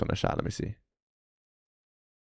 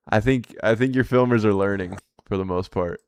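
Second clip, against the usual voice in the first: hushed whisper; 2 semitones lower, 6 dB quieter than usual. Real, not acted. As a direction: whisper it like an aside. Unvoiced aside.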